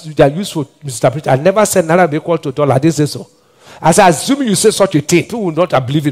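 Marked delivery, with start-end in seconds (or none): 1.4-3.3 fast denial. Real, not acted. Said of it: "I never said so".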